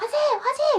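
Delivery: short, repeated, high, loud barked shouts.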